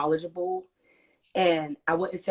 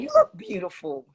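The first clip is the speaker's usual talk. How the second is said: high squeal. Real, not acted. Compliment echoed back, squealed.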